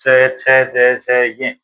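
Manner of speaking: च, छ, ज said one at a time; teacher demonstrating palatal sounds च छ ज; sounding out consonants. Shown as a demonstration. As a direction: say च छ ज against the palate. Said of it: "च वर्ग बोल के देखो".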